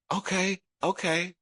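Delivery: small, high-pitched okays; retold child's compliant reply; meek agreement. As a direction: agree twice, high and light. Child quietly agreeing with sister.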